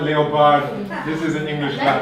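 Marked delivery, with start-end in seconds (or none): 0.0-0.9 "leopard" said as LEE-oh-pard; "leopard" in three syllables, lee-oh-pard; spelling pronunciation. Shown as a demonstration. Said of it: "If you like to call it".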